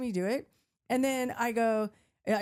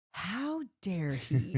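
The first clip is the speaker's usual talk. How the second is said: inner outrage; much slower than usual. Retold or imitated. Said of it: "in my head, right".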